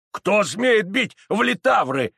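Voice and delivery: slow, high, loud challenge; indignant shout. Acted. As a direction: shout it out as an angry demand. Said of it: "закричал он".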